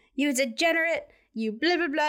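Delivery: play-acted, furious, high yelling tirade. Retelling how a man screamed bad words at someone leaving: retelling someone screaming. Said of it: "he's like screaming all these bad words at him".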